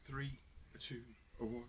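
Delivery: magic trick countdown; dramatic countdown. Acted. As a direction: draw out the suspense. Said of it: "drum roll".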